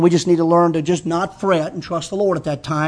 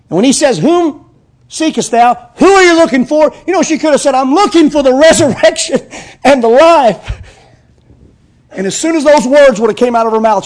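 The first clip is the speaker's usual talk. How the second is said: much higher, loud and excited; excited preaching; 8 semitones higher, 7 dB louder than usual. Acted. Preacher imagining Mary's answer, high and excited. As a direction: lift it into joyful excitement.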